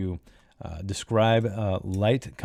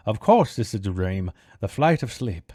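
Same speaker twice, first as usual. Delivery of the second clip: put-on theatrical character voice; Kroop. Man in a dream repeating his mantra, affected character voice. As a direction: recite the mantra in a silly put-on voice. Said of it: "I don't know why I'm doing that voice".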